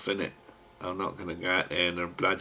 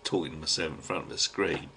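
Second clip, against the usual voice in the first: real hush, softer now the workmen are here; quiet sign-off, trying not to be overheard; 3 semitones lower, 10 dB quieter than usual. Real, not acted. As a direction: keep it down so the carpenters won't hear. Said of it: "I better shut me mush now".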